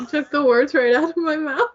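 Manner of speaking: tearful, voice breaking; crying. Real, not acted. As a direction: speak through tears. Friend moved after emotional speech.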